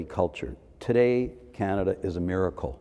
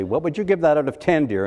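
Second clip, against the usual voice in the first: higher, louder schoolteacher voice with a falsely sweet question; teacher's mock-kind question; sweetly strict teacher; 8 semitones higher, 6 dB louder than usual. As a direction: play the prim art teacher testing a pupil. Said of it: "she'd say".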